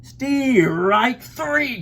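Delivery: high, loud umpire call; umpire's cry. A narrator's reading. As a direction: call it out across the field. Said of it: "cried the umpire".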